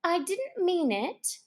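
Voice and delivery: pleading. Acted. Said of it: "pleaded poor Alice".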